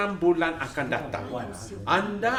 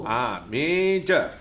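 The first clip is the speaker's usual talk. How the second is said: slow teaching; slower than usual. Shown as a demonstration. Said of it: "semua dengar baik-baik".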